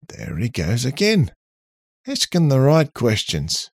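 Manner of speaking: robot voice. A narrator's reading. Robot Charlie remarks.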